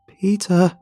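high loud anguished shriek; screaming monster. Acted. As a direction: scream the name into the dark. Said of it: "it screams".

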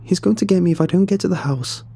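high, urgent warning; panicked yell. A narrator's reading. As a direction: plead in fright as the chase closes in. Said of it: "I yelled".

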